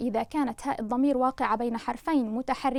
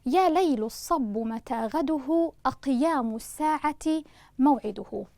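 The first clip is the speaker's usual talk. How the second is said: slow poem recital. Shown as a demonstration. Teacher reciting the verse correctly to students, slow and measured. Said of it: "قرأنا البيت أولًا بشكل سليم".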